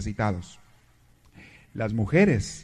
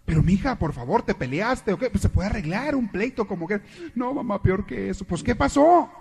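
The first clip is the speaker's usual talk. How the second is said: fussing mother; 6 semitones higher than usual. Acted. Mother pleading in joke.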